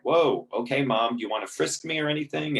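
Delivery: mock surprised sarcasm. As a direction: tease her like she's a cop.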